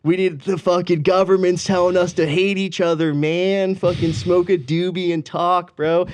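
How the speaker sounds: slow, laid-back stoner bro voice, partly voiced. Guests ending political talks, as a stoner bro. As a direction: play a chill party bro, slowly. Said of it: "And every conversation with ended".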